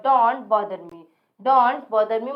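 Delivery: stare at me dragged very slowly; slow modelling. Shown as a demonstration. Teacher slowly modelling stare at me for the class. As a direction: draw each word out for learners. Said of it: "teacher models English slowly".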